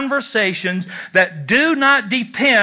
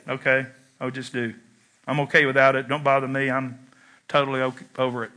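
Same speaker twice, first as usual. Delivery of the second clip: mock hurt; 7 semitones lower, 6 dB quieter, faster than usual. Mock hurt denial after father story.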